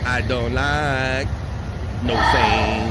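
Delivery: drawn-out, then shouted lisped Tyson line; Mike Tyson lisp. Retold or imitated. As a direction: stretch it slow, then bark "no Thane" in a Tyson lisp. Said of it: "like Mike Tyson saying Shane with an accent".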